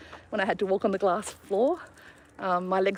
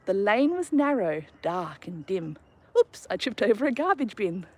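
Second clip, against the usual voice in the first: put-on rhythmic, sing-song reading of a children's poem; poem recitation; 2 semitones higher than usual. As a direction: recite it like a kid's rhyme at a school assembly.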